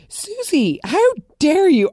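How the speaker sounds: high, loud mock outrage: Susie, how dare you?; half-joking indignant scolding of a TV character. Real, not acted.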